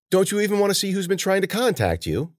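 lightly voiced, high-pitched old lady; prying old woman. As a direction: probe the guest with curiosity.

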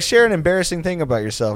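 put-on chirpy prompt; icebreaker prompt. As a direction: imitate an eager group host posing a question. Quoting meet-and-greet icebreaker.

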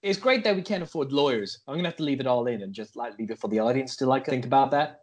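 put-on dry American-accented aside; comic American podcast host. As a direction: comment drily in an American voice.

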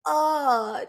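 sudden crack in a cold-worn voice. Real, not acted. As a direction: voice cracks up high on the word. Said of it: "did you hear that?".

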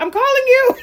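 high, loud, laughed-out mock caller; laughing quote.

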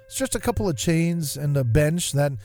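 gentle reflective reading over music; nostalgic story narration. Acted. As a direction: read it like a fond memory. Reads a nostalgic essay over music.

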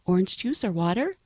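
soft offer, careful not to wake sleepers; low voice. Retold or imitated. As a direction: keep it down for a sleeping cabin. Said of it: "I say it low to not to wake anybody up".

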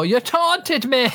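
high, slow mock roar, no real volume; imitated roaring. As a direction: draw it out like a housemate roaring an accusation. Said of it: "when he's roaring at Marco".

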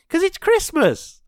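high, slow, stretched out Christmas squeal; excited squeal. Real, not acted. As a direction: burst out with real Christmas glee. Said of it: "I'm really excited about Christmas".

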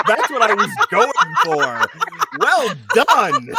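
high, slow, laughing snob voice; haughty, drawn-out art critic with laughter; snooty art critic. Pretend. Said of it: "I'm going the snooty art critic".

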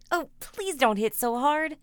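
high loud pleading; begging her to stop. A narrator's reading. Boy being beaten.

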